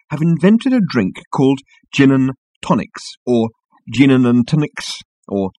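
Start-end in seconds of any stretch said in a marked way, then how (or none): 1.9-3.2 "gin and tonics" said as the familiar drink; usual pronunciation. Shown as a demonstration. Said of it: "variations on the same phonetic". 3.9-5.0 "gin and tonics" slowly distorted as an alien word; phonetic variation. Shown as a demonstration. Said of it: "variations on the same phonetic".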